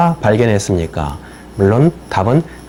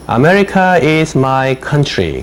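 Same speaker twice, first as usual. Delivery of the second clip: slow dictation read; 4 semitones higher, much slower than usual. Shown as a demonstration. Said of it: "teacher reads a dictation sentence".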